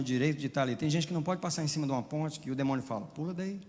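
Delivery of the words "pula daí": softer demon voice. Retold or imitated. Demon tempting on a bridge.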